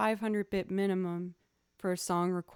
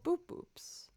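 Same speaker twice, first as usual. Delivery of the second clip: high beep boop; 10 semitones higher than usual. Shown as a demonstration. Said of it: "repeating the pizzicato sounds".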